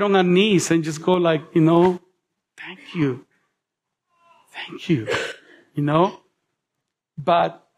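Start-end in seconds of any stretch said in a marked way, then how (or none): 2.6-5.1 hushed thanks. Pretend. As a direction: lower and much softer, overwhelmed. Kneeling before the Lord.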